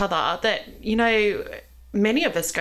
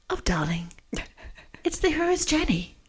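lightly imitated Danish accent. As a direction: mimic a friend's Danish accent. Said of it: "in my best Danish accent".

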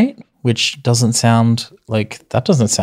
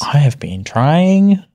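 loud whisper; 5 semitones higher, 4 dB louder, slower than usual. Shown as a demonstration. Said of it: "sounds like a whisper, but it's still loud".

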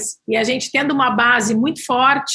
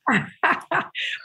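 laugh; 5 semitones higher, 5 dB quieter than usual. Real, not acted. Amused at the Sundhage name question.

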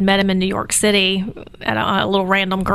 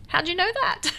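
taken aback; 10 semitones higher than usual. Retold or imitated. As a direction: ask it in hushed disbelief, voice lifted. Mother retells her startled reply.

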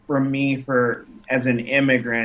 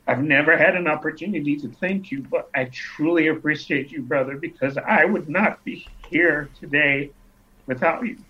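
emotional; 3 semitones higher than usual. Real, not acted. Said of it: "I'm getting a little bit emotional".

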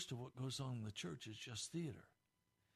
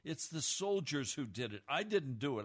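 louder, whiny protest of innocence; defensive blaming; 5 dB louder than usual. Retold or imitated. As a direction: push the blame away, loudly. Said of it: "the blame game".

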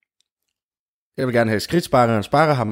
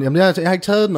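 protesting; 9 semitones higher, faster than usual. Acted. Queen denies theft.

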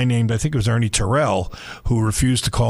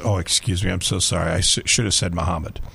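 sorry, smoothing it over gently; apologetic; 5 semitones lower than usual. Retold or imitated. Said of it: "And my mother says".

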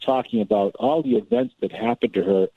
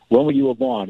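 lightly voiced schoolgirl; 13 semitones higher than usual. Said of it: "Tammy does".

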